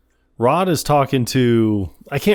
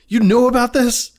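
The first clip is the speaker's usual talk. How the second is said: high, accusing question; mock outrage, pitched right up; imitated mad boss; 12 semitones higher, 4 dB louder than usual. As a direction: confront them as an angry boss. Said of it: "as he gets mad".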